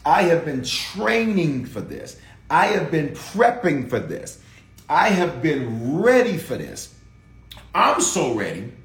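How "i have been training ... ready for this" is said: scripture read. Shown as a demonstration. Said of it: "Psalm one forty-four and one".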